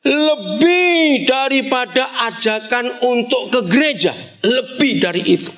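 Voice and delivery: normal talking voice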